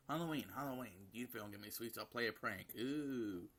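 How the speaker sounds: lightly voiced child's chant ending in a long ooh; a touch of playful childish pestering; demanding little girl. Daughter threatening a prank for sweets, lightly whining child voice.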